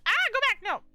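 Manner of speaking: loud high yell at screen. Real, not acted. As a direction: shout it in frustration. Yelling at game screen.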